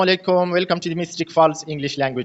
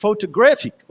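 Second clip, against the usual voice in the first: photographic with GRAPH strongest, PHO slightly lighter; PHO-to-GRAPH-ic, peak on third syllable; primary and secondary stress; 5 semitones higher, much slower than usual. Shown as a demonstration. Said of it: "third syllable है ग्रे".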